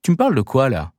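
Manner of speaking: a sharp, dry question from the son; curt. Acted. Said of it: "Le ton était sec".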